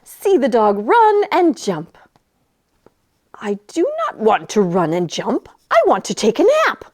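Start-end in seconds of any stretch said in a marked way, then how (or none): 3.3-6.8 a lightly voiced grumpy dog; a hint of a stubborn dog. The dog talks back.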